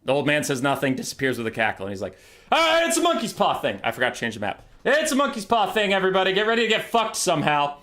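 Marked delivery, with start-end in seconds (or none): 2.5-7.8 resigned announcement. Acted. Player announces doom to chat.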